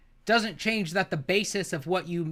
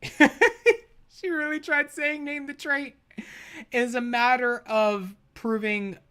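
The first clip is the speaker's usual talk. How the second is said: incredulous mockery; 7 semitones higher, slower than usual. Real, not acted. Incredulous mocking retelling.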